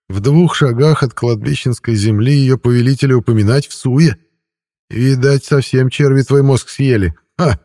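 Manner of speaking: high, loud gloating ghost; breathy hiss through teeth. A narrator's reading. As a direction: sneer at him through bared teeth. Ghost taunts. (злорадный призрак)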